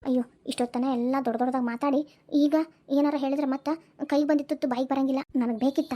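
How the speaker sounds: low-pitched private plotting; low, calculating inner monologue; scheming aside. Acted. Schemer's private aside about the property.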